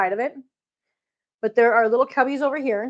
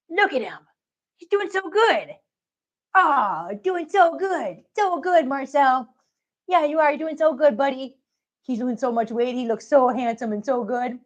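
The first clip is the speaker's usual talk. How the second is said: pet talk. Real, not acted. Cooing at cat on camera.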